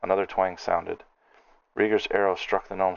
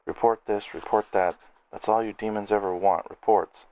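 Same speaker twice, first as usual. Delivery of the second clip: furious rant; 3 semitones higher than usual. Acted. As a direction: spit the word report back at him. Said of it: "launching into a furious tirade".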